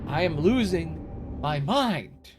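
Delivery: slow, stretched out, half-moaning; drawn-out despair. Real, not acted. Player stuck on a boss, slow drawn-out mock despair. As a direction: drag every word out in mock despair.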